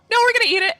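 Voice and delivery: high, loud defiant retort; mock defiance. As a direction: play a stubborn kid shouting back. Acted defiant reply to the warning.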